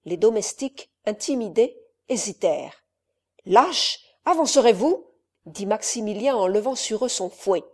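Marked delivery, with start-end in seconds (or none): 3.5-5.1 louder, higher shout at cowards; angry shout. Acted. Count yells at hesitating servants, loud and high. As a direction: lash them with your voice.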